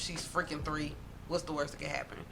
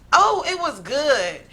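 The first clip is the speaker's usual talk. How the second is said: put-on three-year-old sister; 4 dB louder than usual. Three-year-old tattles to stepmom at dinner, sweet and innocent. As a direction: play an innocent tattling toddler. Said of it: "This my three-year-old sister answer".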